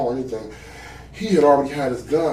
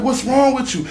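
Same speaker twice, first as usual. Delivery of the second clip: retold yelling; 10 semitones higher than usual. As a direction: yell it back in disbelief, retelling. Speaker quotes himself yelling back.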